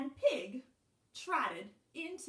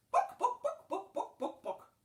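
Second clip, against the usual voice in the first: quick high clucks of "book", falling back; clucking hen; 13 semitones higher, 3 dB louder than usual. A narrator's reading. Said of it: "said the hen".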